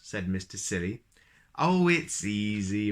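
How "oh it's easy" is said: lightly voiced. Nonsense voiced, slow.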